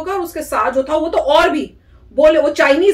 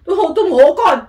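pretend confrontation; 4 dB louder than usual. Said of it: "मैं कहती".

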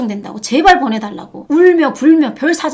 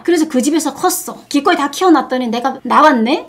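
ordinary talk

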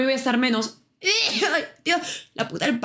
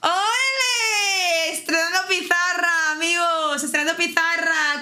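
excited cheer; 4 semitones higher, slower than usual. Real, not acted. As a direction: celebrate with a shout. Celebrating new whiteboard.

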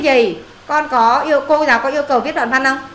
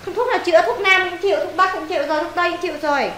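mock grave diagnosis; 4 semitones higher than usual. Teacher teasing a lazy pupil, mock-solemn diagnosis. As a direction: pronounce the laziness incurable with mock gravity.

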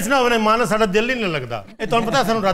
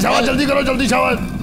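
urging on; 2 semitones higher, 4 dB louder than usual. Acted. Prisoner urging on, mock guard.

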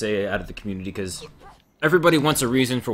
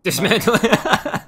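high, loud, slow goading call; heckling shout; 10 semitones higher, 5 dB louder, slower than usual. Real, not acted. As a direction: call it out slowly and high to goad him. Heckling teammate over prized loot drop.

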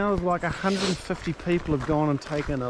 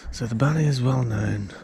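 nature documentary; 5 semitones lower than usual. Acted. Mock nature presenter about bunnies.

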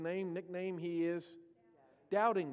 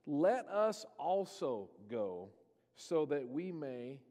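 solemn resolve; 5 semitones lower, slower than usual. Retold or imitated. Thomas telling fellow disciples they will die with Jesus, slow solemn hush. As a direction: let the resolve sink, slowing down.

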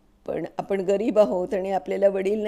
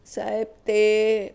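flustered; 2 semitones higher, 4 dB louder, much slower than usual. A narrator's reading. Constable caught, stammering.

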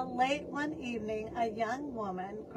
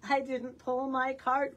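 grumbling donkey; 2 semitones higher than usual. Acted. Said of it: "grumbled Donkey".

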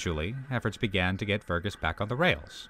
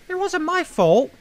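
scowling; 9 dB louder than usual. A narrator's reading. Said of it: "scowled Duck".

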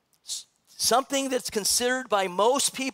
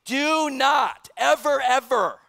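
"ever" stretched slow, higher and louder; emphasizing ever; 5 semitones higher, 5 dB louder, slower than usual. Shown as a demonstration. Pastor hammering the verse to the church, slow emphatic stress. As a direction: lean hard on "ever, ever". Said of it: "And so he is emphasizing".

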